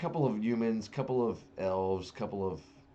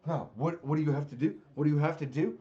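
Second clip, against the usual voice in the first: mocking reveler; 6 semitones higher, faster than usual.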